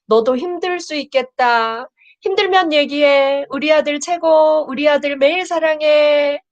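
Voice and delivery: tender parent voice. Acted. Reads tender parent messages from chat. (아이에게 말하듯 다정하고 높은 목소리로)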